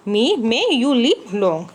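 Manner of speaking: very slow, drawn-out blessing; drawn-out blessing for the class; slow read-aloud. Shown as a demonstration. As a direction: stretch the blessing out slowly. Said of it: "तो उसका मतलब हुआ".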